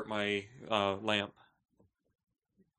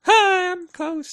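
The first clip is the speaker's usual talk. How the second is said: loud mock greeting; 12 dB louder, much slower than usual. Mocking the advice to get closer.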